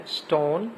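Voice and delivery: اسٹون with a long "oh" vowel. Shown as a demonstration. Teacher showing the long vowel sound, long "oh" in اسٹون. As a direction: model اسٹون with a full "oh". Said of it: "long وال sound آ رہی ہے".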